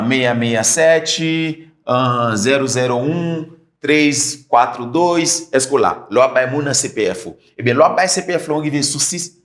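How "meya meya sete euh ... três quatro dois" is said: careful slow number dictation. Shown as a demonstration. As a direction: slowly read digits one by one. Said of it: "m ap di moun nan C P F mwen".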